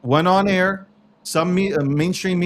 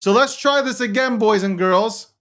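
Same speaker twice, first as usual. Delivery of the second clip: boastful mock strongman; dictator bluster. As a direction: play the self-declared dictator. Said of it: "Okay, Donald J. Trump".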